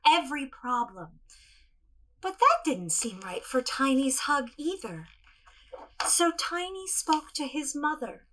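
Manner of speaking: gentle storybook narration; storytelling. Acted. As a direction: tell it to children, unhurried. Tells tiny T-Rex story.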